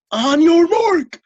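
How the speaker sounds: slow, loud, high bellow; bellowing coach. A narrator's reading. Coach starting the swim race, bellowing. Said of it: "bellowed the coach".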